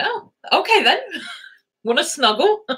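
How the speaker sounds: high timid giving-in voice; meek dog voice. Pretend. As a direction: voice the dog backing down sweetly. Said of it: "Gypsy was like".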